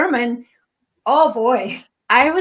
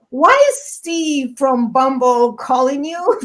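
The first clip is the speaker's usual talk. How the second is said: slow, mildly accusing question; incredulous questioning; 3 semitones higher, 4 dB louder, slower than usual. Retold or imitated. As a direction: imitate a puzzled family demanding answers. Family confronts her, retold.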